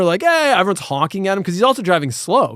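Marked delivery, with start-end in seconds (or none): 0.2-0.5 high-pitched imitated heckle; quick mock holler, pitched way up; mock yelling. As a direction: call it out like a honking driver. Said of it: "yelling at Homer".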